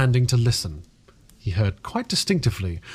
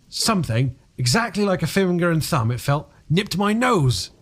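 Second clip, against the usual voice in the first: shaken retelling; 5 semitones higher than usual. A narrator's reading. Cuss reaching the scary climax.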